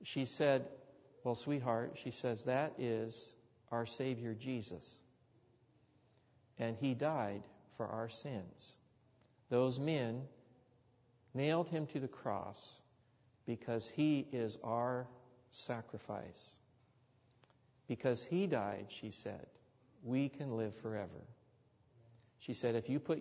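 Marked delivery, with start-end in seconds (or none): 1.2-2.0 lightly voiced grandmother comforting a child; tender grandmother. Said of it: "There was something in the tone of her voice". 2.4-18.9 lightly voiced grandmother comforting a child; tender grandmother. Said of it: "There was something in the tone of her voice". 20.0-21.2 lightly voiced grandmother comforting a child; tender grandmother. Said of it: "There was something in the tone of her voice".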